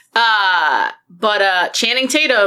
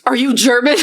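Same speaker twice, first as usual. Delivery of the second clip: loud, higher quote breaking into laughter; acted-out incredulous question with a laugh; amused mock question; 4 semitones higher, 5 dB louder than usual. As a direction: blurt the quoted question, cracking up. Acts out archaeologist's funny question, laughing.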